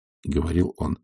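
ordinary delivery

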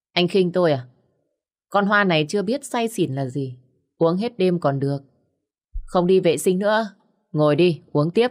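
lớn tiếng, giọng say sưa thách thức; cự lại đầy tự ái, to tiếng; say xỉn thách thức. Acted. Cô gái say thách thức gã đàn ông. (cô gái say cự lại gã đàn ông, to tiếng)

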